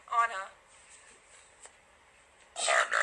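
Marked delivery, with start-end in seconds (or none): 2.6-3.0 name burped out low; burping the words. Shown as a demonstration. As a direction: burp the name out loud. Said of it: "Can you burp my name?".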